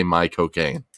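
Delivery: demonstrating a Michael Caine-style British accent. Shown as a demonstration. Host shows co-host the accent trick, British accent. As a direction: say it as a British "my cocaine". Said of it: "in a British accent".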